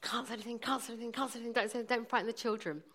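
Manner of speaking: hushed, tight chant to herself; soft, repeated self-warning through suppressed agony; biting her tongue. Retold or imitated. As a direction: hold the pain in, under your breath. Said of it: "just was biting my tongue".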